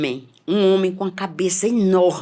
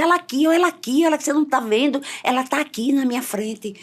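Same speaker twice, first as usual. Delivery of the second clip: raised, urgent cry of alarm during a vision; frantic insistence; 7 semitones higher than usual. Retold or imitated. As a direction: insist wildly that she is right there. Insisting on the unseen child.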